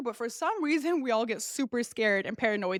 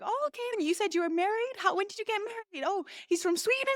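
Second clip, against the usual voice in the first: high, softer imitation of small talk; chatty doctor; 9 semitones higher, 4 dB quieter than usual. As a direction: mimic a doctor distracting a patient, pitched up.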